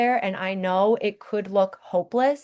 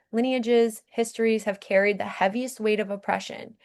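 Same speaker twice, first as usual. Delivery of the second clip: ordinary delivery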